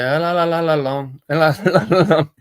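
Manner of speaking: lightly sung, hint of a Jamaican accent; half-hearted Jamaican accent on a la-la chorus; mock Jamaican accent. Recalling a song for friends, mock Jamaican accent. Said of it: "they're trying to put Jamaican accent on".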